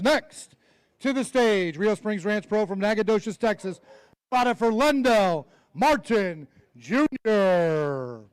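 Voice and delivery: slow, drawn-out ring announcer call; announcer intro. Acted. Emcee introducing the next angler to the crowd, drawn-out announcer call. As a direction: stretch the name out for the crowd.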